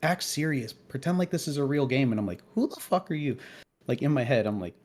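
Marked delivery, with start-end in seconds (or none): 0.0-2.1 mock bossy girl berating her team; retold trash talk, pushy and insistent. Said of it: "talking shit to the other girls". 2.5-3.4 mock-indignant, pitched up; retold inner outrage at a bossy kid; indignant retort. Indignant retort in his head.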